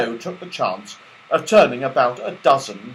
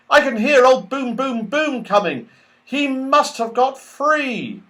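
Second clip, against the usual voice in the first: put-on high, urgent boyish voice; Joe, anxious toy; 13 semitones higher than usual. Joe warning friends of the pursuer, high and urgent. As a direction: hurry them along, fearful.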